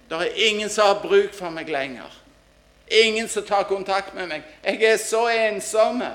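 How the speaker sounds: imitated plea of the lonely elderly, high and loud; acted lonely cry. Preacher voicing old people nobody visits, acted lonely cry. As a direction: cry out as the forgotten old, slowing at the end. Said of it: "rop ifra de gamle som sitter".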